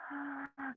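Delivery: soft, audible breath "ah"; breathing demo. Shown as a demonstration. Teacher showing children how to breathe, soft breathy demo. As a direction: show a breath with a quiet "ah".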